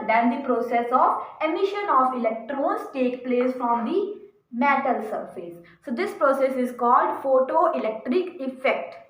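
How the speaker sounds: very slow, word by word, like dictating notes; slow dictation. Shown as a demonstration. Teacher dictating the definition to students, very slow and deliberate. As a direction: spell the definition out so students can write it.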